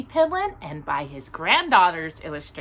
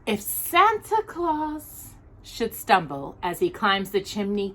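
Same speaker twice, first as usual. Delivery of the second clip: put-on rhythmic, lilting read of a children's poem. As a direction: read it like a bedtime Christmas rhyme. Reads a Christmas poem aloud.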